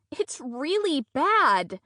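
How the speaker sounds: slow, barked through covered mouth; muffled through hand. Acted. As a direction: bark it from behind a hand. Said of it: "I bark through my hand".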